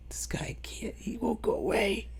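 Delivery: hushed, mock creeped-out whisper. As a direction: whisper it like he might hear you. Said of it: "recalls feeling creeped out".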